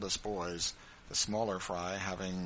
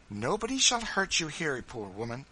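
encouraging; 6 semitones higher, 4 dB louder than usual. A narrator's reading. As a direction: reassure a frightened woman, emphatically. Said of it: "said Missus Bird encouragingly".

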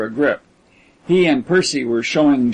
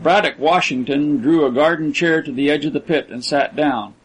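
ordinary delivery

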